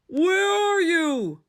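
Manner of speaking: high, slow worried question; anxious call. A narrator's reading. Toad searches the dark for Frog, anxious and slow. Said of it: "said Toad".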